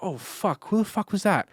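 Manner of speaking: jumpy, high-pitched shock at a sudden voice; like someone just snuck up behind you; startled. Retold or imitated. Skater startled by a cop's sudden voice, high and jumpy.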